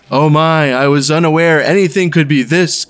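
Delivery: lightly voiced game show announcer. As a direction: announce it like a ring host. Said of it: "Again, I'm getting Don Pardo".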